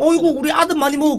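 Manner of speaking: high, sweet doting mom voice; doting mother. Retold or imitated. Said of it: "세상 모든 어머니들은 원래 좀 약간 이렇지".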